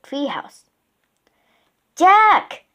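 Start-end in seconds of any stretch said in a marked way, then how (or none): 2.0-2.6 high, loud call; excited high-pitched holler. A narrator's reading. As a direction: call his name from off in the woods. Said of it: "Annie called from the woods".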